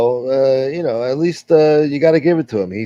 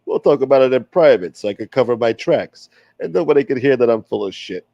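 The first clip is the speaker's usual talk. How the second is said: put-on wise guy accent. Old gangster defending his name to the stream, lightly voiced. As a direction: play the smooth-talking tough guy, lightly. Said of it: "I used to do this accent a lot better".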